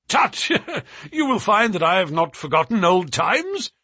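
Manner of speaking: high, loud exclamation; cried out. A narrator's reading. Trevor assuring the sailor he remembers old times, crying out. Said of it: "cried Mister Trevor".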